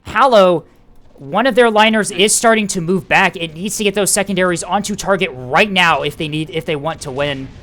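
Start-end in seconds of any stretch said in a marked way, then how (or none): 0.0-6.0 high, loud climax call; excited. Real, not acted. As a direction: shout the finish urgently. Climax of the match called.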